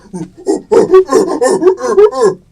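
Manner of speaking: huge, loud gorilla roar; King Kong roar. Shown as a demonstration. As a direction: roar like a giant ape hanging on a building. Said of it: "and we go".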